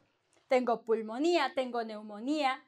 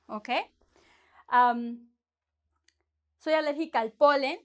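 ordinary talk, nothing marked

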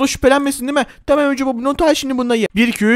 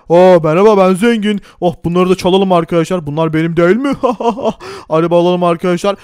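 rich man voice; 4 semitones lower than usual. Acted. Player switches back into rich man voice to greet viewers. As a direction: lower put-on rich man, proud. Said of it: "Eski sesime geri döndüm ama neyse, şimdi zengin olayım tekrar".

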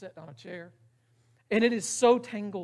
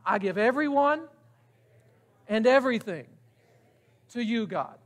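leading the prayer again; 4 dB louder than usual. Shown as a demonstration. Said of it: "Let's say it one more time".

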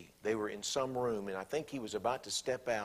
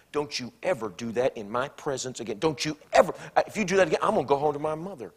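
mock angry wife; 3 semitones higher, 6 dB louder, faster than usual. Acted threatening wife.

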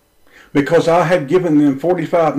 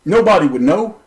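retelling a raised voice at Martin; 3 semitones higher, 3 dB louder than usual. Retold or imitated. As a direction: lean on him with a raised voice. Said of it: "I raised my voice to Martin and said".

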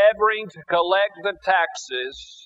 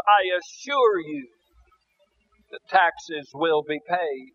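tearful pleading; 2 semitones higher than usual. Acted. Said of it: "the old gentleman begins to weep".

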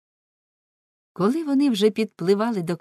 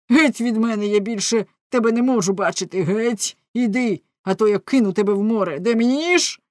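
furious shout; 3 semitones higher, 5 dB louder than usual. Acted. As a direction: yell at her to get out. Jealous husband drives wife away. (лютий крик)

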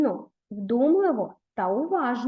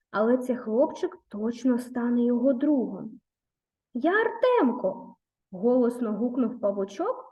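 put-on gentle storytelling read to children; story narration. A narrator's reading. Teacher reading a fairy tale to pupils, gentle narration.

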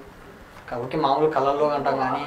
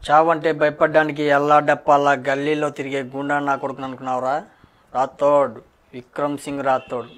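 louder punchy movie-hero dialogue, menacing; Ravi Teja dialogue; 4 dB louder than usual. Pretend. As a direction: deliver it like a mass hero threatening a villain. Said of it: "రవితేజ dialogue చెప్తా".

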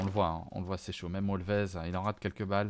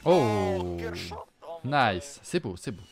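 ordinary talk

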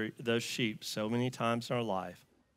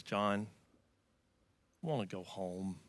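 tearful plea; 3 semitones lower, 7 dB quieter than usual. Retold or imitated. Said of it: "Tearing up".

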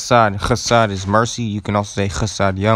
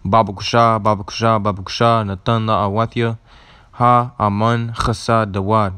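recited name list. Shown as a demonstration. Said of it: "just gonna repeat it one more time".

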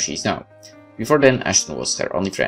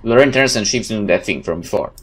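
dramatic first-person game narration, louder than chat; story narration; 3 dB louder than usual. Acted. Player reading a game's story aloud, dramatic narration. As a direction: tell it like a dramatic tale.

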